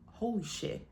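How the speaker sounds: soft, stunned retold exclamation; quiet shock. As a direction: drop the volume, as if stunned. Retold shock at being kicked out.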